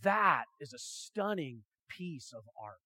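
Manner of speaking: slow, lightly voiced great artist praising the work; Leonardo da Vinci. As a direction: give it a master's measured approval. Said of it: "imagine it's Leonardo da Vinci that says".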